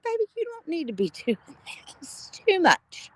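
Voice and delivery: mock tearful protest to her son; touched. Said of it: "I was like".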